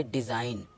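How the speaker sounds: डिज़ाइन ending on N, no G sound; silent G. Shown as a demonstration. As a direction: say डिज़ाइन with the G left out. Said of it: "इधर हमारा जी silent हो चुका है".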